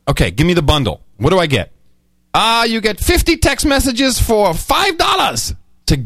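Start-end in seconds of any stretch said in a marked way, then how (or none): 2.3-5.5 mock Indian agent, higher and slow; imitated Indian accent. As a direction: put on an Indian accent, drawn out. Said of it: "I'm sorry to do the accent".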